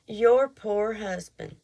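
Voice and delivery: slow, pitying put-down; condescending. Retold or imitated. Man in store pitying her husband, slow and condescending. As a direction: drawl it like he pities her husband. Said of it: "it was the way he said it".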